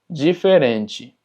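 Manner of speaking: diferente slowly as "jiferenchi"; DI ji, TE chi. Shown as a demonstration. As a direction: open diferente on "ji", close it on "chi". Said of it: "entonces es ji". (diferente lento, dicho «jiferenchi»)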